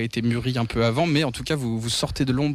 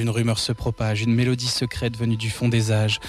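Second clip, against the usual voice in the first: poem recital; 4 semitones lower than usual. Acted. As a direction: read it like a dark ballad. Poem intro read over music.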